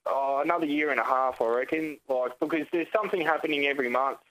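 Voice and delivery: crackly phone line voice; long distance phone call. Real, not acted. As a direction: heard over a bad phone line. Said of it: "sorry about the phone line being like this".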